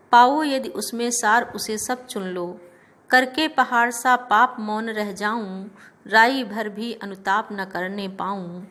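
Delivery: steady, sing-song verse reading; poem recitation. Shown as a demonstration. Teacher reciting Kaikeyi's plea to the class, in poem recitation style. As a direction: recite each couplet with measured rhythm.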